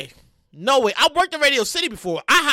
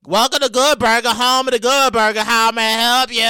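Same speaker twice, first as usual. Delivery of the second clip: Good Burger greeting; 5 dB louder than usual. Retold or imitated. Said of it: "that Good Burger".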